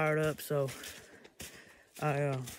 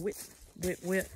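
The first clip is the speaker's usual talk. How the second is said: short, high-pitched turkey "wit" notes; turkey call imitation; 4 semitones higher than usual. Shown as a demonstration. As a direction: imitate a turkey's little calling noise. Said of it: "that little noise, I'm just saying".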